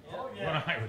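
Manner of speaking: quiet mock answer; mumbled mock "What Irish?"; mock muted reply. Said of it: "mock reply".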